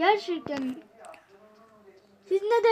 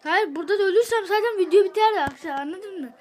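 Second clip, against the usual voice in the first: irritated rant; 6 dB louder than usual. Real, not acted. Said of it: "çok sinirlendim ya".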